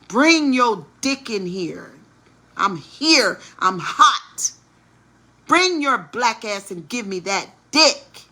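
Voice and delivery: lightly loud imitation of her ordering him over; mock demand. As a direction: punch out an impatient mock command. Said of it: "she said".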